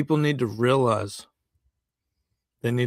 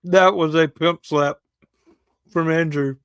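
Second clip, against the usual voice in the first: excited; 3 semitones higher, 5 dB louder than usual. Real, not acted. Co-host reacting, delighted.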